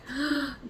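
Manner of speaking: short sharp mock gasp of shock; quick staged gasp, then silence; imitated gasp. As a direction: act out his startled intake of breath.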